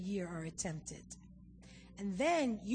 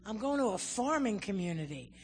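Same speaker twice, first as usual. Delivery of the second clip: louder, exasperated protest; protesting to God; 5 dB louder than usual. Retold or imitated. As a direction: argue with God in disbelief. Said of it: "I said".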